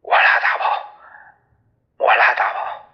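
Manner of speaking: hushed, airy plea repeated in fear; frightened pleading. Acted. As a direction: beg with the gun at your chest. Terrified at gunpoint, pleading. (惊恐地连声求饶)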